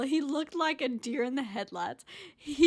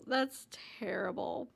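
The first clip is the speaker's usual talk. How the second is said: hushed whispered dismay; 4 semitones lower, 6 dB quieter than usual. Real, not acted. Repeats reaction whispered.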